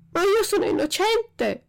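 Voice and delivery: very high, loud cry of innocence; desperate plea. A narrator's reading. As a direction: plead frantically with the police. Puppet protests his arrest.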